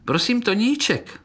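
high, tiny pleading voices; thin little voices. A narrator's reading. Little beetles tattling to the conductor in tiny voices. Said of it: "žalovali tenké hlásky".

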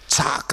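quick spoken slap noise; imitated slap. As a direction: mimic a sudden smack. (napodobené plácnutí)

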